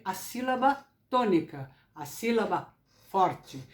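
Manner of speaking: "tônica" and "forte" punched on their first syllables; emphatic stressed syllables. Shown as a demonstration. Teacher shows viewers the strong syllable, stressing "tônica" and "forte". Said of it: "olha como eu falei".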